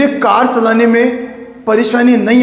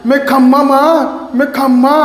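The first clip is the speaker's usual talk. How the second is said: put-on niece's baby talk; 4 semitones higher than usual. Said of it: "माँ बोलती है गा की जगह".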